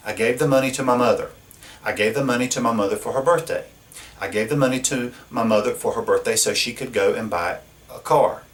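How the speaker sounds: fast, rattled off, piling up the sentence; quick demo of a wordy sentence; rapid repetitive listing. Shown as a demonstration. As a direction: rush through it to show how repetitive it gets. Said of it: "we don't have to keep saying that over and over".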